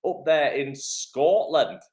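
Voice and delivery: lightly put-on Scottish accent; slow down into a mock Scottish accent; playful Scottish accent. Host greets a viewer in Scotland, mock Scottish accent. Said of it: "that was my Scottish accent".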